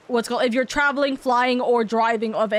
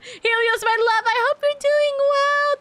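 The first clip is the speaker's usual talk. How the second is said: sweet greeting; 11 semitones higher, slower than usual. Real, not acted. Greeting the raider affectionately.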